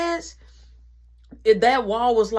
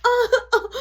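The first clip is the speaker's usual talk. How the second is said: laughing protest; 13 semitones higher, 5 dB louder than usual. Real, not acted. Being grabbed by mom.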